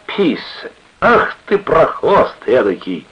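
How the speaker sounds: put-on high, loud drunken exclamation; boisterous greeting. A narrator's reading. Drunken sailor to clerk, boisterous. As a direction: hail an old pal with a playful insult.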